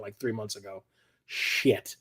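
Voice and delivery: a private dawning realization; muttered to self. Retold or imitated. Vlogger recalling his forgotten pre-order, muttering a soft curse.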